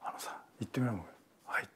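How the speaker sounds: whispered private coaching aside; a senior actor quietly coaching the rookie, whispered; hushed coaching. Retold or imitated. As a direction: lean in and whisper the tip. Ryu-san coaching quietly.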